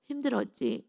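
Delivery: soft, gentle consolation; imitated soothing word from God; comforting. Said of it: "위로하시는 거예요".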